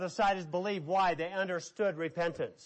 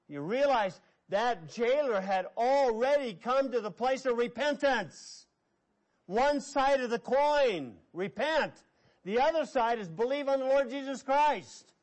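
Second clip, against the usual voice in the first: raised, insistent sermon voice; emphatic preaching; 4 semitones higher than usual. Real, not acted. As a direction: drive the point home to the congregation. Preacher drives home a point.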